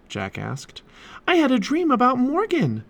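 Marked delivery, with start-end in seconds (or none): 1.3-2.8 put-on high, eager girl's exclamation; excited exclamation. A narrator's reading. Annie tells Jack about her dream, excited exclamation. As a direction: burst out with it, pitched right up. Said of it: "exclaimed Annie".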